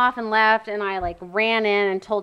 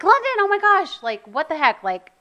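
relieved calling out; 5 semitones higher, 4 dB louder than usual. Retold or imitated. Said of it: "and I was like".

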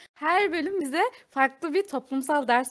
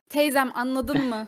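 emphatic question; 5 dB louder than usual. Retold or imitated. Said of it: "Murat Soner diyor ya".

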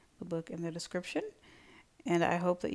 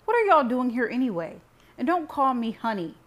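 loud, raised, indignant; heated exclaiming; 7 semitones higher, 10 dB louder than usual. A narrator's reading. Heated son turns on his visiting family, exclaiming. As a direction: exclaim it hotly, pitch up. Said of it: "I exclaimed".

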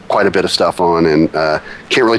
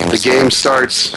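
garbled robotic call audio; robotic Skype glitch; 4 semitones higher, slower than usual. Real, not acted. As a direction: voice breaking up like a Dalek. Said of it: "you're going Dalek-y".

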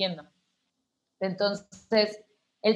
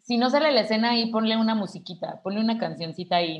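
mock advice; 2 semitones higher, faster than usual. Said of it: "esta broma de".

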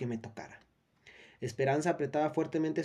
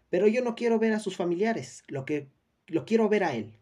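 raised, insistent woman's voice; 6 semitones higher, 5 dB louder than usual. A narrator's reading. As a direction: demand it loudly, higher. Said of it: "decía una voz femenina".

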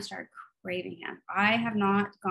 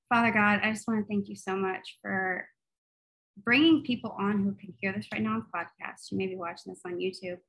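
earnest spoken prayer to God. Acted. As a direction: pray it sincerely for the listeners. Leads a closing prayer.

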